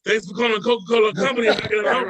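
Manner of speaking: customer service greeting. Retold or imitated. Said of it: "dumbass questions like".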